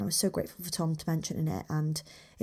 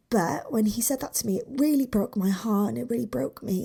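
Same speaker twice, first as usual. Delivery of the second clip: higher voice, real hurt coming through; getting emotional; 4 semitones higher than usual. Real, not acted. Telling listeners how the teacher broke their heart, emotional. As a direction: push through the upset as you tell it. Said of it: "It's really, really strange why I'm getting emotional about it".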